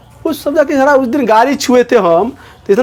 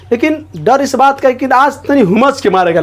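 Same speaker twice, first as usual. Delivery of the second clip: laughing. Real, not acted. Teacher laughs while explaining.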